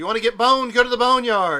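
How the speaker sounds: very loud, high, top-of-the-lungs full-volume scream. A kid in a game walks around yelling out a phrase, screaming at the top of his lungs. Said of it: "He's screaming at the top of his lungs".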